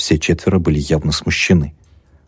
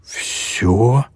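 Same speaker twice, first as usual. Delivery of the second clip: higher, startled echo; alarmed; 5 semitones higher than usual. A narrator's reading. Sisters alarmed at being asked to tell everything, startled. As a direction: ask it back higher, in alarm. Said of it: "переполошились сёстры".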